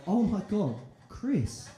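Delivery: high, hammed-up girly gushing to a mate; over-the-top admiring coo, laughing; mock gushing.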